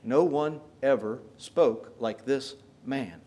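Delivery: slow, hushed wonder at a stranger; awed amazement. Retold or imitated. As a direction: say it like you can't believe what you heard. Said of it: "spoke with jaw-dropping amazement".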